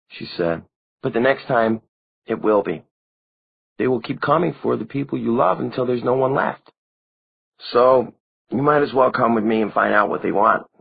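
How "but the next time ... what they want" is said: put-on higher, girlish voice, hurt and accusing; a dead girl blaming the one who never came; young vampire girl Maureen, reproachful. A narrator's reading. Dead girlfriend reproaching Simon, higher and girlish.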